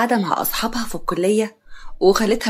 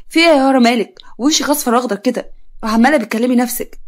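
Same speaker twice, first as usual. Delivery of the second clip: puzzled; 3 semitones higher, 3 dB louder than usual. Acted. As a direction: ask in puzzled concern. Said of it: "صاحبتها باستغراب".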